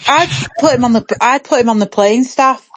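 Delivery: talking with a mouth full. Real, not acted. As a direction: speak through a mouthful of food. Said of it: "I've got my mouth full again".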